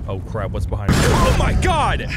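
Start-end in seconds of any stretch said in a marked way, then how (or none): 1.0-2.0 high, loud, drawn-out slow shriek of fright; real terrified yell; frightened cry. Real, not acted. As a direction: stretch it out in real alarm. Something behind him in game.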